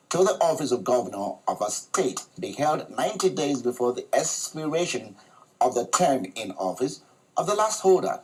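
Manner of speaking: measured studio news introduction; news read. Real, not acted. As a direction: read it out as a formal news report. Presenter reads news introduction.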